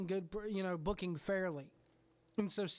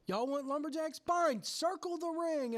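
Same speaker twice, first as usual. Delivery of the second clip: mock challenge; 7 semitones higher than usual. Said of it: "Mecca is like".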